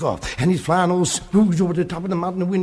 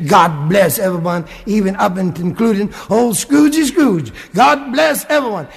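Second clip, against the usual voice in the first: Tiny Tim's blessing; 6 dB louder than usual. Acted.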